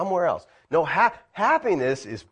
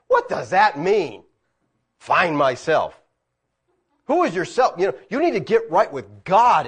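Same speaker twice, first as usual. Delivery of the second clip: slow, louder indignant demand; going ballistic; 4 semitones higher, 5 dB louder than usual. Retold or imitated. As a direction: hammer the question at him. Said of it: "I about went ballistic".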